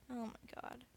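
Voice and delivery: slow, breathless whisper of disbelief; hushed, drawn-out whisper; disbelieving whisper. Real, not acted. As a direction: whisper it slowly under your breath. Muttered aside in disbelief.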